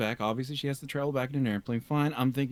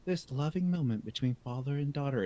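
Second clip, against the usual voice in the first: documentary narrator; 5 semitones higher, 3 dB quieter than usual. Retold or imitated. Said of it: "the narration is like".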